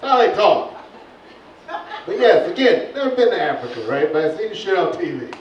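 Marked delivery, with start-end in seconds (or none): 0.0-0.7 high, loud, laughing through it; loud laughing aside. Real, not acted. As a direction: crack up at his own joke.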